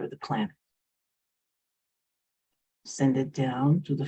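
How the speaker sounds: unhurried meditation guide with long pauses; guided meditation. Real, not acted. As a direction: lead them gently inward, leaving space between phrases.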